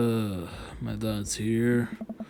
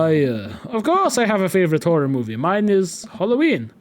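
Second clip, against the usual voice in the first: put-on posh British accent; 4 semitones higher, 4 dB louder than usual. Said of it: "You sound like a posh British dude".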